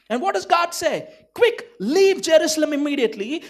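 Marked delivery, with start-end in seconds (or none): 1.4-3.4 louder, higher urgent warning; pressing, emphatic order; urgent command. Acted. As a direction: urge them to get out at once. God urgently warns Paul in vision.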